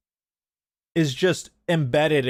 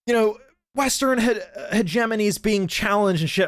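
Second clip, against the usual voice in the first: high, pompous mock voice; sarcastic impression of commenters; mocking quote; 8 semitones higher than usual. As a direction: parody the anti-Western talking point. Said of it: "they're like".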